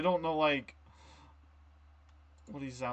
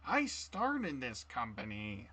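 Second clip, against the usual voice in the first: slow, drawn-out villain line; Willem Dafoe impression; 3 dB quieter, much slower than usual. Repeating the Dafoe line for guessers, slow drawl. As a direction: stretch each word like the Goblin. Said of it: "the William Dafoe".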